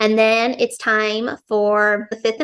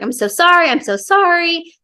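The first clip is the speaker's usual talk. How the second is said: higher-pitched, lightly acted tearful apology; mock crying; 6 semitones higher than usual. Daughter apologizes to her dying dad, mildly acted tearful plea. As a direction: imitate a tearful plea without real sobs. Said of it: "like, crying".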